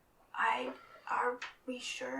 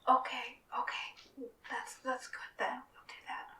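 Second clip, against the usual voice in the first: whisper; 4 dB louder than usual. Acted. Character voice, whispering.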